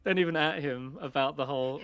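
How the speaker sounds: ordinary talk, nothing marked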